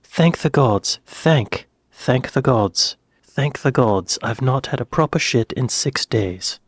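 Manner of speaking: put-on practicing a British accent, copying the actor. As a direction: try the line in a careful British accent. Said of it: "an American doing a British accent".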